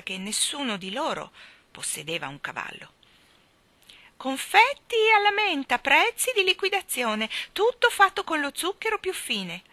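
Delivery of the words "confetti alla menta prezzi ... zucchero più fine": high, loud street-vendor's call; shouted sales cry. Acted. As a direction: cry your wares after departing customers. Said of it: "l'udirono gridare mentre se ne andavano".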